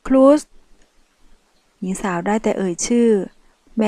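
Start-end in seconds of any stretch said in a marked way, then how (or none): 0.1-0.4 a pained cry of his name; calling out. Acted. Wounded woman crying out to the mafia man. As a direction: call out to him, hurting.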